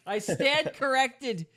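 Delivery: laughing. Real, not acted. Repeated line, now laughing.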